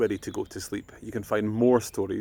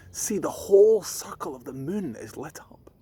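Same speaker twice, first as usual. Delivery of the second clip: whisper; 7 semitones higher than usual. Acted. Mum shows the moon softly.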